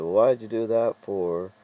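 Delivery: mock rude questioning; imitated rudeness. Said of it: "And she's incredibly rude".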